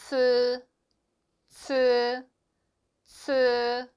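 츠 with an aspirated ts; Chinese c sound. Shown as a demonstration. Teacher models the Chinese c for students. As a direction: push air through 츠. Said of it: "크 발음 아니고요".

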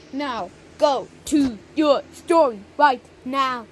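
mock shout. Parent shouting punishment.

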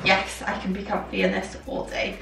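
breathy whispered thought; hushed private thought; inner thought. Retold or imitated. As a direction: mouth it to yourself, half-whispered. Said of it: "you just think".

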